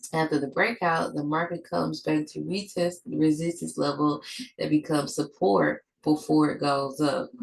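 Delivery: talking through a stuffed up nose; blocked nose, congested voice. Real, not acted. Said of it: "I'm sorry that I sound so stuffed up".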